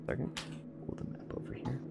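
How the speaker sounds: a whispered aside; whispering. Real, not acted. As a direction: whisper it off-mic. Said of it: "whisper heard".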